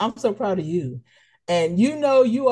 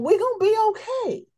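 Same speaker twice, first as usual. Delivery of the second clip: hopeful reassurance. Retold or imitated.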